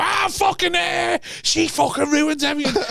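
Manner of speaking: high, drawn-out mock yell; hammed-up irate dad outburst; storming-out rant. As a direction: blow up theatrically before storming off. Acts dad storming out after row.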